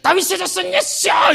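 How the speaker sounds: high, slow, full-voiced cry. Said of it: "뒤에 더 크게 소리 질러".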